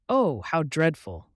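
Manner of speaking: slow, loud, shocked "Oh, how dreadful"; shocked cry. A narrator's reading. Rabbit hears of ducks shot by hunters, slow shocked cry. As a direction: let the horror stretch the words out. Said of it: "cried Peter, looking quite as shocked".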